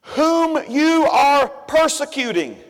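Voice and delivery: slow, solemn voice from heaven; voice of Jesus. Acted. Jesus answering Saul on the road, slow and solemn. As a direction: speak it slow and grave, like a voice from the light. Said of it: "And he said".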